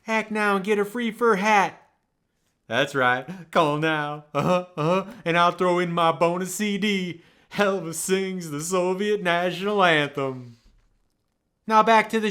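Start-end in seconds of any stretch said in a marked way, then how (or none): 0.1-10.6 a touch of a famous singer closing the ad; famous-singer ad pitch. Acted. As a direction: push the offer with mock rock-and-roll swagger. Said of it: "just like the singer himself".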